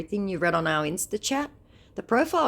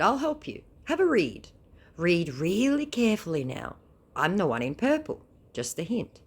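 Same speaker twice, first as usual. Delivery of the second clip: mocking sing-song; 5 semitones higher than usual. Reading her own chat, mocking.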